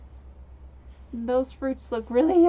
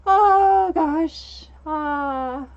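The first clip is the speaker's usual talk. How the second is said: tag of laughter; 2 semitones higher, 8 dB louder, much slower than usual. Real, not acted. Recovering from a laughing fit.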